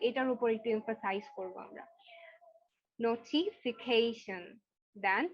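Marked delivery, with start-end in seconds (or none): 3.0-4.4 নোটিফিকেশন slow, -কেশন emphasized; stressed ending. Shown as a demonstration. Teacher repeats নোটিফিকেশন for class, slow and emphatic. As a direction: stretch নোটিফিকেশন and hit its end. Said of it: "জোর দিয়ে বলবো".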